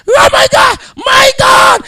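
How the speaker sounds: very high-pitched mock astonishment; acted amazement. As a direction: gasp it out high, as if overwhelmed. Acts servant seeing heavenly armies.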